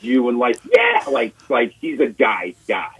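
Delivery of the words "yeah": high-pitched mock fan yell; squealed cheer, imitating an excited girlfriend; violently excited. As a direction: imitate her wildly excited outburst. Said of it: "when she gets excited, she gets violent".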